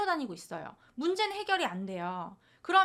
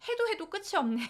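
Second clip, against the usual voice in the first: exasperated sigh; 9 semitones higher than usual. Retold or imitated. Exhausted parent's inner voice.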